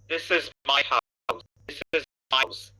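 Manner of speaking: slow, measured repetition; model for imitation. Shown as a demonstration. Teacher models the line for students to imitate, slow delivery. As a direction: say it slowly so learners can copy. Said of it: "যেইভাবে গলা নিয়ে বলবো".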